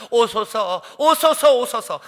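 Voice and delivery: longing cry. Acted. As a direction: call the beloved, swelling on the second cry. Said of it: "연인을 향해서 외치는 겁니다". (간절하게 부르짖는 외침)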